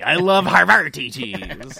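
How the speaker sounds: slow pirate drawl on Havarti. Shown as a demonstration. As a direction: say Havarti like an old sea dog. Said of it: "I like to say it like a pirate".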